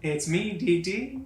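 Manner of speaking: coy villain on the phone, lightly voiced; thin voice. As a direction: draw it out in a slightly thin voice. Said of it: "you hear a thin voice in your ear".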